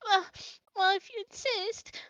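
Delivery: put-on small, high, reluctant child; tearful giving in. Mimi gives up the dragon, tearfully reluctant. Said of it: "and Mimi's like".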